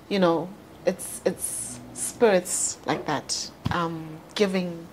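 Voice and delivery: holding back real tears for a lost friend; getting emotional. Real, not acted. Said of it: "I'm gonna get emotional".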